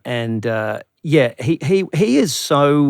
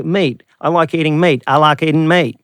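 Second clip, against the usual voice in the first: Southern drawl; 2 semitones higher, 3 dB louder than usual. Shown as a demonstration. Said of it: "Like a Southerner would go".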